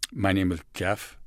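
Jeff said as Kaff with a lisp; my name is Jeff, lisping the J. Shown as a demonstration. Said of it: "I grew up with a lisp".

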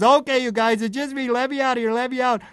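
high-pitched calling to be let out; acted pleading. Otto calls out from inside the moose.

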